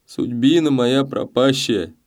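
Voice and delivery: a despairing rower lamenting his lot; bitter lament. A narrator's reading. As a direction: mourn your lost fate. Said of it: "горько добавил".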